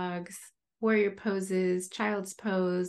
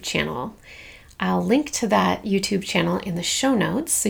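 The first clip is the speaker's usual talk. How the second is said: clear, measured host read; scripted podcast announcements; 6 dB louder than usual. Acted. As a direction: read out announcements to listeners, evenly paced. Scripted announcements read before episode.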